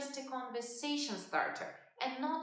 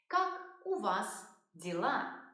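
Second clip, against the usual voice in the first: slow model phrase. Shown as a demonstration. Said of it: "which is a formal way of saying".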